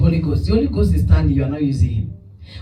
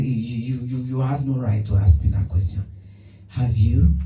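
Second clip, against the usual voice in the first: a hint of the guilty husband, lower and softer; stammering husband; 7 semitones lower, 4 dB quieter than usual. Husband refusing the pastor's question, lightly voiced stammering. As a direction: stumble over the words, caught out.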